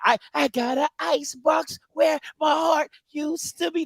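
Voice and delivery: hammed-up slow, icy declaration; slow, overdone tough-girl line; mock cold Key. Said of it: "she got a".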